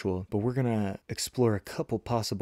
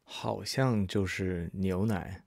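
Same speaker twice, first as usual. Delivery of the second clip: slow, stretched model answer; unhurried, spaced teaching repeat; slower than usual. Shown as a demonstration. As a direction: draw out each word for learners. Model answer repeated slowly for learners.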